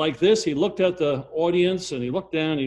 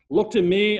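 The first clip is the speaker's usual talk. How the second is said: a plea flung to the congregation; loud pleading call; 5 semitones higher, 5 dB louder than usual. Retold or imitated. Preacher voicing Christ, calling loudly to sinners. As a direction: call it out, raised and strong.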